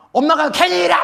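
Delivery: mock mom losing her temper; angry mother. Shown as a demonstration. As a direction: blurt it out in frustration. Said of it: "화날 때".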